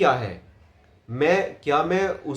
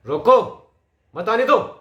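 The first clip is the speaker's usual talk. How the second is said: higher, forceful command; urgent order; 5 semitones higher, 5 dB louder than usual. Shown as a demonstration. Coach acts out stopping someone, urgent raised order.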